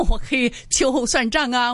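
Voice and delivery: a half-joking threat through a laugh; playful laughing warning. Retold or imitated. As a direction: laugh while warning him. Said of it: "笑着跟他说的".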